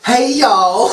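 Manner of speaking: hammed-up Southern "y'all" greeting; bad Southern accent. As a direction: attempt a Southern accent, badly. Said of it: "I'm so bad at this one. This is my worst one".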